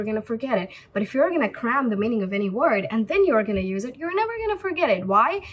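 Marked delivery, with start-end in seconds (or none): 4.0-5.1 never said high and fast; stress on never. Real, not acted. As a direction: punch never as a promise. Emphatic teaching point.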